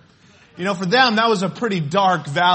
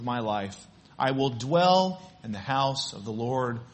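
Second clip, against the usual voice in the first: scripture reading; 3 semitones lower than usual. Acted. Pastor reads the psalm to the congregation, measured and solemn. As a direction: lay each verse down gently like a promise.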